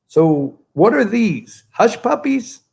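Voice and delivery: high, mock Southern questioning; put-on Southern accent. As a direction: play a politician faking a Southern accent. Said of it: "their Southern accent".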